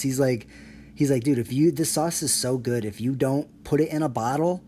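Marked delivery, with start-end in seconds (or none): 1.2-4.6 loud, worked-up judge rant; intense judge. Retold or imitated. Judge raving to a chef about his sauce, loud and worked up. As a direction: bark the praise like a hyped-up judge. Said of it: "he gets really, like, in fucking tense".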